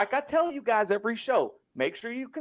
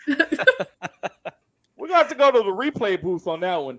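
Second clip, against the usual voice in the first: laughing; 4 dB louder than usual. Pretend. Mock referee review, laughing.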